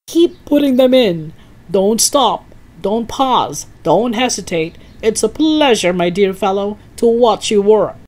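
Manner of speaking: put-on old man cheering on a boy cooking a potion, excited; excited eager old man. A narrator's reading. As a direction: egg the boy on, giddy with impatience. Mister Cranky urging George on.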